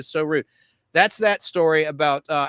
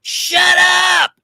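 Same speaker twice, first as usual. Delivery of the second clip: high, loud mock shout of a rude girl; 12 semitones higher, 5 dB louder, much slower than usual. Girl in the theater yelling at Jason to shut up, loud and high. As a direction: belt it out as the angry girl, higher. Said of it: "She goes".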